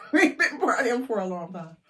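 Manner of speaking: laughing through the repeat. Real, not acted. Retelling the long party to viewers, laughing. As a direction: chuckle it out.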